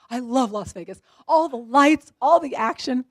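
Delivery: gushing imitation of an eager son; excited son. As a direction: list the attractions with loud, punched enthusiasm. Son acted as thrilled by Vegas.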